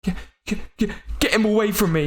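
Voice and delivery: scared man ordering Raven away from him; panicked demand. Acted. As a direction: push him away in fear. Stranger demands Raven back off.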